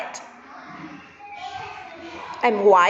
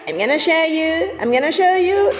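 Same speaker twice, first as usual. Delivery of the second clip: excited reveal; 3 semitones higher than usual. Pretend. Teasing kids before the reveal.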